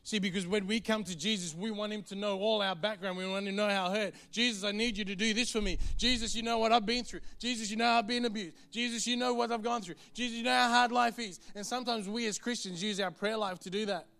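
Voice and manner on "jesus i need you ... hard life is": pleading complainer. Acted. Mock complaining prayer voiced.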